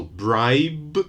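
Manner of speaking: bribe with a clearly voiced b at the end; careful teacher's bribe, final b sounded. Shown as a demonstration. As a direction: let the B in bribe buzz. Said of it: "final sound, B, B, B, it's voiced".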